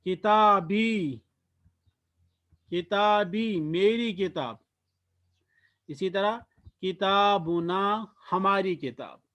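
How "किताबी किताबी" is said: किताबी drawn out slowly, ki-taa-bi; slow demo. Shown as a demonstration. Teacher introducing the word slowly to students. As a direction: say किताबी slowly so it can be copied. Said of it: "इसके बाद हम कहते हैं".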